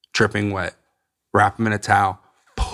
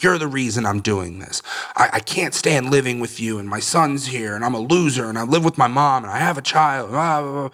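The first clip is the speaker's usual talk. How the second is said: higher-pitched rant without real volume; mock yelling; 4 semitones higher than usual. Son ranting at mom he lives with, mild mock yell. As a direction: imitate a self-pitying rant at mom. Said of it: "I started yelling at her".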